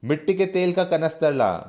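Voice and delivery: acted furious order; angry command. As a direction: yell for the kerosene. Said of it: "Guman Singh गुस्से से कहते हैं".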